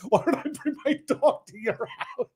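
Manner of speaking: very high, singsong mockery; mocking silly argument. Listener lampooning the dog argument, mocking. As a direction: ridicule it in a squeaky-high voice.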